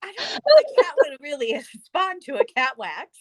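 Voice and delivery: giggling through the words; laughing while retelling it. Retold or imitated. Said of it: "I was like".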